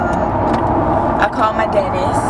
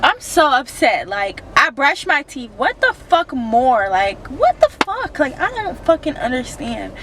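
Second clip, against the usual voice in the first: higher, frustrated venting; upset outburst; 4 semitones higher than usual. Real, not acted. After bad dentist news, vents her frustration to viewers. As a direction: let the hurt and anger spill out. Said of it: "I'm having an emotional breakdown right now".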